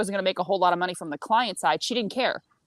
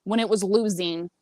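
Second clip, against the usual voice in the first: ranting complaint, mildly heated; fed-up venting, retold; retold bitching; 3 semitones higher than usual. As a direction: replay an angry refusal, punching key words. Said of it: "I was bitching to him a little bit".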